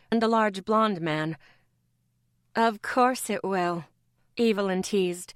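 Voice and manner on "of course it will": teasing with a smile. Acted. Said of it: "the smile clear in her voice".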